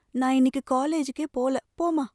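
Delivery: crying refusal. Acted. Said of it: "தங்கை அழுது கொண்டே சொன்னாள்".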